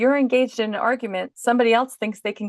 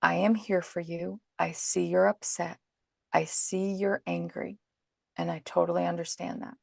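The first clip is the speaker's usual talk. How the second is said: calm reassurance; 7 dB quieter than usual. Shown as a demonstration. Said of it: "cry through it and say".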